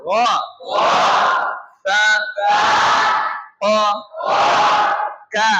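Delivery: each Arabic letter said alone with a long pause after it; slowly, one letter per breath, long gaps between; one letter at a time. Shown as a demonstration. Teacher showing students to say each letter separately. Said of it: "এটা তো একটা করে উচ্চারণ করলেন".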